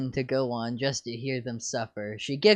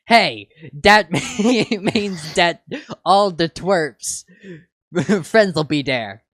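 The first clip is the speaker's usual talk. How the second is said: excited; 4 semitones higher, 8 dB louder than usual. Acted. Excited realization.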